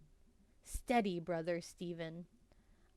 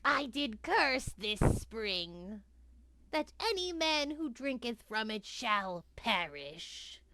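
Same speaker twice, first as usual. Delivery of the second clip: put-on creaky old witch cursing travelers; old hag. Witch boasts of her curse.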